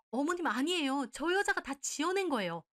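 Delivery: high, loud, frantic pleading; desperate denial. Acted. Mistress begging the mother to believe her, frantic. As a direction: cry out that it's all lies.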